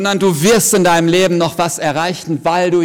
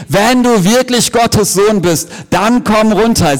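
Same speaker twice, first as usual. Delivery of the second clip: higher, louder jeering taunt; mocking crowd; 4 semitones higher, 3 dB louder than usual. Onlookers at the cross taunting Jesus, jeering. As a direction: jeer up at him slowly. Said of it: "Was sagen sie zu ihm?".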